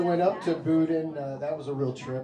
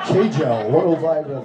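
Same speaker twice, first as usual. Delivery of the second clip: K-Jell shouted much louder, hard K; mock yell; 11 dB louder, slower than usual. Joking about the name Kjell, shouting K-Jell loudly. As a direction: yell K-Jell like a web address. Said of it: "I'm like".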